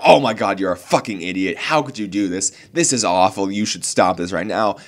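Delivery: mock furious outburst that starts loud, then settles; imitating a screaming troll in the comments; angry commenter yelling. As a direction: rant at him like an angry commenter. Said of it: "you're just screaming at me".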